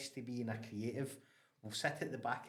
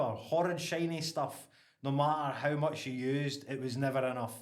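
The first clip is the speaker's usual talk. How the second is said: poem declaimed louder in a broad Ayrshire accent; 6 dB louder than usual. Shown as a demonstration. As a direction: recite it proudly in broad Ayrshire. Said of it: "I'll read it in my broad Ayrshire accent".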